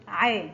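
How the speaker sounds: slow model syllable ع, pharyngeal and open; ع with fatha. Shown as a demonstration. Teacher repeating the rule, ع sounded out slowly with fatha. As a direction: draw out ع slowly from the throat with an a. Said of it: "تنطق".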